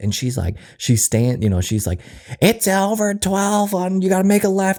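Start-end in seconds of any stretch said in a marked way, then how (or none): 2.4-4.8 mock very high-pitched scream. Retelling a store employee giving directions to a customer: imitating an employee screaming. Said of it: "screaming right next to my kid".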